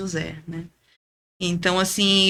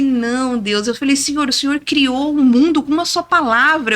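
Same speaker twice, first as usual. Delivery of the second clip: louder, higher sermon tone aimed at God; preaching to God; 4 semitones higher, 4 dB louder than usual. Retold or imitated. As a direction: proclaim his power back to him, pulpit style. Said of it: "eu quis pregar pra Deus". (pregação insistente para Deus)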